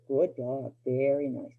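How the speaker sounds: calm praise. Shown as a demonstration. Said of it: "nice and calm".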